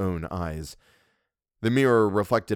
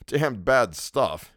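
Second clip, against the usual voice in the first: disgusted drawl; 3 semitones higher, much slower than usual. Acted. Louis grimaces at brandy.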